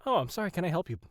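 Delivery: bright polite customer service voice. Shown as a demonstration. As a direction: chirp it like a helpful clerk. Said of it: "my customer service voice".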